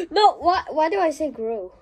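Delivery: laughing through the words. Real, not acted. Kid laughing at his own slip of the tongue. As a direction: crack up mid-question.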